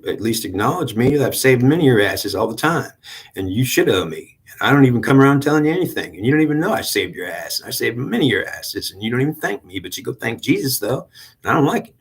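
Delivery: a hint of a sulking devil listing his deeds; the devil complaining nobody thanks him; resentful devil. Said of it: "Oh, you're the killer mentality".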